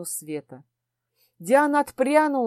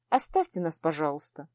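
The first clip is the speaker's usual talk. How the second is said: a softer courteous dismissal; polite request; 6 semitones lower, 6 dB quieter than usual. Acted. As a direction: ask the mage kindly to leave. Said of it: "вежливо попросила".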